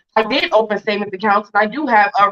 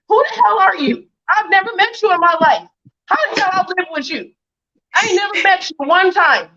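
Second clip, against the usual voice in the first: heated indignation; 5 semitones higher than usual. Real, not acted. Heated rant at accuser.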